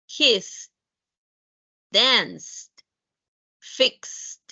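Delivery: each word ends in a crisp T, no extra syllable: helped, looked, laughed, fixed; clipped -ed as T list; teacher drilling voiceless -ed endings. Shown as a demonstration. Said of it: "Vamos a hacerlo con los demás".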